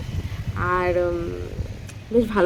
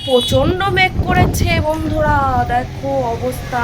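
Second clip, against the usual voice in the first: awed; 4 semitones higher, 4 dB louder, slower than usual. Real, not acted. Awed by the storm clouds.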